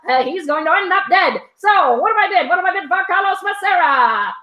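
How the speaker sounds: hammed-up auctioneer rattling off bids. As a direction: hawk the lots like a 1920s barker. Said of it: "your nineteen twenties Carnival Barker, uh, voice".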